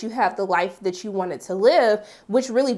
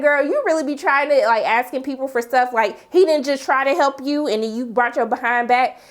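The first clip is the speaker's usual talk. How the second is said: sassy scolding; 4 semitones higher than usual. Retold or imitated. Recapper talks back to June on screen, sassy scolding. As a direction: call her out with sass.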